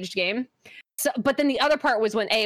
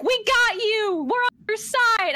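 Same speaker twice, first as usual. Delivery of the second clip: chat voice; 12 semitones higher, much slower than usual. Retold or imitated. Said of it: "everybody in chat's like".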